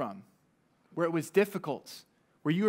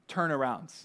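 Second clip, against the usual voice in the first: low, quiet, unhurried command; a captain calmly giving an unthinkable order; 4 semitones lower, 5 dB quieter than usual. Retold or imitated. Submarine captain telling his crew to turn, calmly. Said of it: "calmly says to him".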